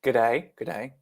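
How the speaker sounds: testing out a badly faked Australian accent. Shown as a demonstration. Co-host hunting for British and landing on an Australian accent. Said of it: "That's Australian".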